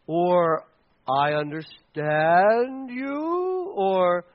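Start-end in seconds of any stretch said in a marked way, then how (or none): 1.1-3.7 drawn-out, noncommittal concession; evasive sympathy. Acted. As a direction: stretch it out to dodge apologizing. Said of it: "we just ignore it".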